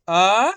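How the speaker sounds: short-a letter sound held long and loud; teacher's isolated letter sound; sounded-out syllable. Shown as a demonstration. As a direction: sound out the lone vowel clearly, teacher-style. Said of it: "एक अक्षर का उच्चारण करके".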